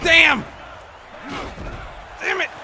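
loud, high furious yell; angry shout. Real, not acted. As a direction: blurt it out in real frustration. Frustrated gamer shouting at play.

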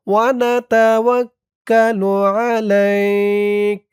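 slow, measured chanted prayer; recitation. Shown as a demonstration. Teacher reciting the whole passage for learners, slow chant. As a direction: recite it slowly, word by word.

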